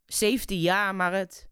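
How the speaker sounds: intense slam poetry recital with a driving rhythmic refrain; spoken word performance. Acted. Poet performing her award-winning poem for the radio audience, intense recital. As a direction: recite it like a spoken word stage piece, pressing each line.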